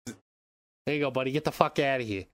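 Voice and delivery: offhand dismissal in a put-on accent; mock tough-guy accent, slowing on the opener; Vladimir Putin. Host's Putin dismisses his spit-bucket advisor, joke accent. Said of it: "That's Vladimir's real accent".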